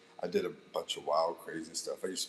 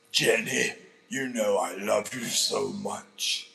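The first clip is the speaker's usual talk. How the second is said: slow, loud-starting mock Russian accent; Forrest Gump; 4 dB louder, slower than usual. Streamer on viewer's request, Forrest Gump with Russian accent. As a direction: declare love in a put-on Russian accent, drawn out. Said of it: "Do a Forrest Gump dialogue, but in a Ru-, Russian accent".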